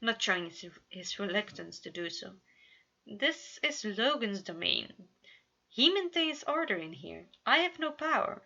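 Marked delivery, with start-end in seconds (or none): 3.1-8.4 higher, mock offended huff; pretend offended huff. A narrator's reading. Roman huffs at Logan, hammed-up offence. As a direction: play at being insulted. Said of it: "Roman huffed at, pretend offended".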